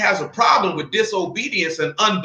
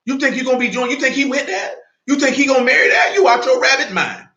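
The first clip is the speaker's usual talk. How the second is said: laughing scorn; 5 semitones higher than usual. Real, not acted. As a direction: laugh at the very idea. Mocking the idea, laughing.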